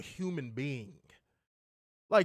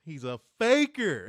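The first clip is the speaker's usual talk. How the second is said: louder mocking call-out; loud accusing; 7 dB louder than usual. Shown as a demonstration. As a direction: call him out loudly.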